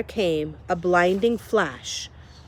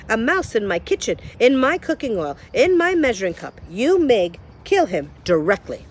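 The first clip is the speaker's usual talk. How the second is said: outraged Cook; 3 semitones higher than usual. Acted. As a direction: build up indignation then command. Cook's outburst.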